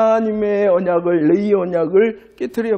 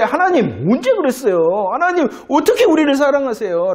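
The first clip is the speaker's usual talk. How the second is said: higher, doubting questions to God; incredulous protest; 5 semitones higher than usual. Retold or imitated. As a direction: mildly challenge him. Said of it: "라고 말할까요".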